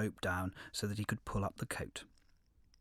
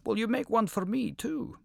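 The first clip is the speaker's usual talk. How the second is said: lion voice; 11 semitones higher than usual. A narrator's reading. Lion asks the wolf.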